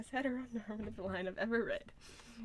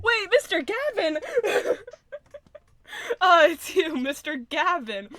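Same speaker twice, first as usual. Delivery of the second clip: loud, high cry through real laughter; delighted laughing shout; 7 semitones higher, 11 dB louder, slower than usual. Real, not acted. Streamer recognizing Mister Gavin, laughing loud shout. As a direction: shout it giddily as you crack up.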